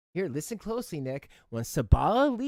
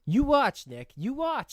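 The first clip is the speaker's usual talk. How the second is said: loud and higher, a warning to Nick; 8 semitones higher, 6 dB louder than usual. Real, not acted. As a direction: call it out at Nick, louder and higher. Warning Nick, pointing at him.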